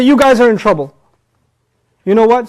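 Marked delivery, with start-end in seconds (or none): 0.0-0.9 loud, raised warning to a group; scolding teacher. Acted. Teacher warns the whole class, loud and scolding. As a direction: call out the whole room sternly. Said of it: "the whole class, I say".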